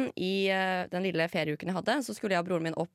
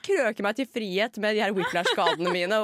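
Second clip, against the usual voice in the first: laughing, louder, mid-story; 2 semitones higher, 5 dB louder than usual. Real, not acted. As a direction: giggle through the absurd escape. Laughs retelling escape.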